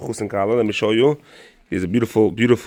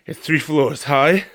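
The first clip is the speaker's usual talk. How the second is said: laughing; 5 semitones higher, slower than usual. Real, not acted. Laughing climbing store stairs.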